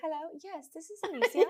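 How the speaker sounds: high, polite phone greeting; customer service voice. Shown as a demonstration. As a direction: answer like a receptionist. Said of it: "Turn on your customer service voice".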